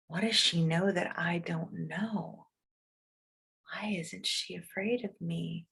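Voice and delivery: soft, hushed musing; baffled wolf thinking quietly; puzzled inner thought. A narrator's reading. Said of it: "That moment he thought".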